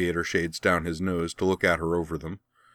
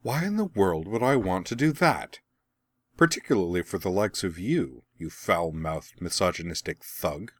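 a light, cool dismissive brush-off; coolly dismissive impression. Veronica imitating Azula to the crew, coolly dismissive. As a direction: mimic the captain's icy disdain, lightly voiced. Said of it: "quite a good impression of Azula's coolly dismissive voice".

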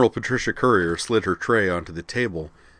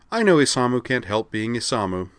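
cheerful; 4 semitones higher, 3 dB louder than usual. Acted. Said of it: "she said cheerfully".

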